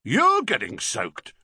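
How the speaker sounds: London copper echoing back; policeman mocking echo. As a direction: throw the words back, sardonic. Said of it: "repeated the policeman".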